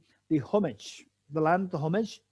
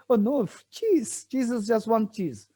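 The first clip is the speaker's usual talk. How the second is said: naive protest; 4 semitones higher than usual. Retold or imitated. Acting naive self in a cheese dialogue.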